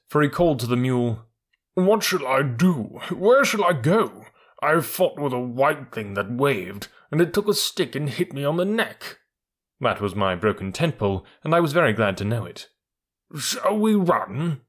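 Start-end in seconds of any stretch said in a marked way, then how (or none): 1.7-9.2 frightened camel voice. Acted. Frightened camel speaks to mule. 13.4-14.6 timid camel. Acted. Camel asks to flee.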